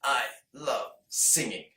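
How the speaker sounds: tight squeezed throat, slow; squeezed strained voice. Shown as a demonstration. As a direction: bear down and squeeze it out. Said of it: "squeeze and go".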